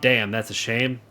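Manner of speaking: slow, mild southern drawl; light southern accent. Acted. Townsperson sorry about the burned farm, slow light southern accent. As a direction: draw it out with a touch of southern. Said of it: "that is my southern accent".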